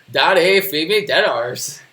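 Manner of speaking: slow, loud dim-witted talking dog; goofy pet voice, drawn out; dopey dog voice. Pretend. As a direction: beg loudly and slowly as a dopey dog. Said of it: "he's still got the dopey voice".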